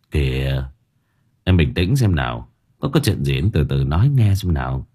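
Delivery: low, steady man's voice; soothing reassurance; calming. A narrator's reading. Man calms the sobbing woman.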